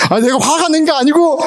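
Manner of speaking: high-pitched indignant protest, played for laughs; hammed-up, high-pitched anger; mock angry outburst. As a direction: retell your own flare-up with comic indignation. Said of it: "되게 화를 내고 있더라".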